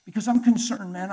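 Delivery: loud, slowed heartfelt plea; earnest appeal. Retold or imitated. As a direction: reach out to him urgently. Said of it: "I said".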